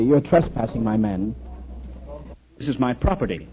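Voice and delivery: mildly pleasant duke, unhurried; pleasantly. Retold or imitated. English duke to trespassing Irishman, pleasantly. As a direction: point it out politely and evenly. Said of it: "the duke said quite pleasantly".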